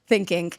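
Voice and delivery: "thinking" echoed with a K at the end; imitated K ending. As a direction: copy the "think-ink" ending. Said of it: "I put a K".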